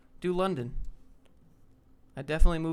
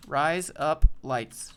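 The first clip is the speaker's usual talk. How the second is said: slow, loud mock-Australian demo; deliberate Australian accent lesson; Australian accent trick; 6 dB louder, much slower than usual. Shown as a demonstration. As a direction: spell out an Australian accent word by word, slowly. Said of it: "say razor blades with an Australian accent".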